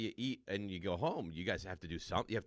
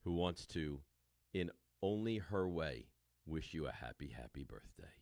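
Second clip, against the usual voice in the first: sultry voice; 5 semitones lower, 5 dB quieter than usual. Pretend. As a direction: drop into a husky, seductive whisper-tone. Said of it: "A sultry voice for you".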